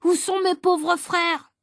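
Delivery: a prompter feeding the line, slow and high; a greedy boy playing prompter, calling out the line slow and high; prompter's voice. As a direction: call the line out as the prompter, drawn out. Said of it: "Je suis le souffleur, alors je souffle".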